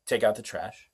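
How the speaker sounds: firm demo of a command; emphatic command. Shown as a demonstration. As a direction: bark it like an exclamation mark. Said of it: "we're gonna put an exclamation mark".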